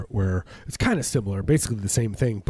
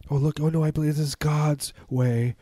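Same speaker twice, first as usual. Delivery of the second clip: mock pious believer; 6 semitones higher than usual.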